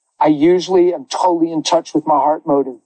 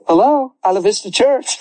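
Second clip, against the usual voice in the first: tearful put-on phone voice; 5 semitones higher than usual. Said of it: "I put on a voice and I answered the phone".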